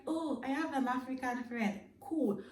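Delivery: a high, mocking impression of a naive stranger; mock eager stranger. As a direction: imitate an overeager stranger. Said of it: "and you're like".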